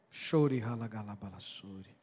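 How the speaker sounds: low, slow tongues prayer; speaking in tongues. Real, not acted. Preacher praying in tongues over the church, low and slow.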